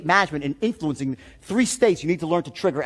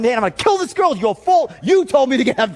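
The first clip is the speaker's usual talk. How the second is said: freaking out; 5 semitones higher, 4 dB louder than usual. Retold or imitated. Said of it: "Now I'm freaking out".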